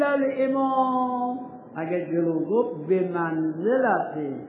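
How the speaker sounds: slow, drawn-out reading of the Arabic phrase by phrase; slow Arabic text recitation. Shown as a demonstration. Teacher reading the Misbah passage aloud to students, slow recitation. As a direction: recite the old jurist's words slowly, savouring each phrase.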